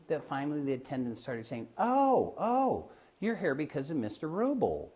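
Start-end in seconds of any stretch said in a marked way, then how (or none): 1.8-4.9 eager exclamation. Retold or imitated. Attendants greet the confused visitors.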